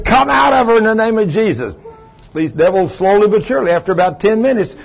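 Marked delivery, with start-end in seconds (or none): 0.0-1.7 raised, higher, out stressed with a falling end; preacher screaming at demons while pinning her; screaming command. Retold or imitated. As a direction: yell it over the struggle. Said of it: "I'm screaming".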